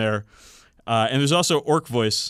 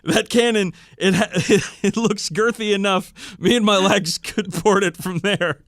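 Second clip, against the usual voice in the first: put-on old wolf voice; 8 semitones higher, 5 dB louder than usual. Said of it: "The venerable old wolf voice replied".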